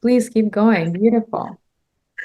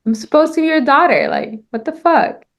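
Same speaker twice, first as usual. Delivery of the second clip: confused outrage; 5 semitones higher, 3 dB louder than usual. Shown as a demonstration. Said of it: "You're just confused".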